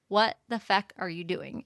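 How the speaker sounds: "What the fuck are you doing?" in a lightly voiced thick accent at normal pitch; a hint of his thick accent, retold. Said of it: "he says it in his accent and the whole deal".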